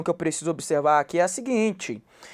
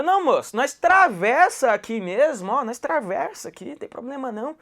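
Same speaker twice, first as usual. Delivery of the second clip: Goiás speech; 5 semitones higher, 3 dB louder than usual. Retold or imitated. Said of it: "eu falei assim".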